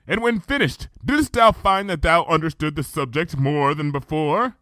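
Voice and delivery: measured, archaic royal speech; Luna's regal voice. Acted. Luna recounting the past to Twilight, stately.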